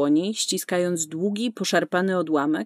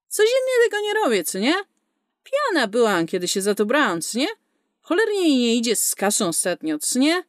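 sarcastic; 4 semitones higher than usual. Acted. Sarcastic retort to client's jab.

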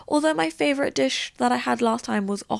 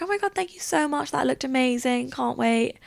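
mildly hammed-up, higher-pitched gush; gushing thanks; 6 semitones higher than usual. Photographer thanking her for dancing with the camera, mock gushing. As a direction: imitate a grateful photographer, pitch up then easing down.

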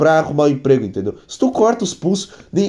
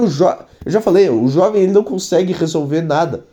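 ordinary talk

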